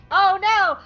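high, loud "oh no" through laughter; real giggly panic; laughing dismay. Real, not acted. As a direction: cry out, cracking up. Loses her place while laughing.

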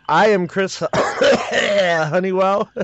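coughing mid-sentence, choked; choking on a drink. Real, not acted. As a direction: sputter through a swallowed drink. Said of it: "I'm choking on my energy drink".

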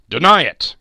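loud ghostly cry. A narrator's reading. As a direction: hurl it out as a command. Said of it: "cried the spirit".

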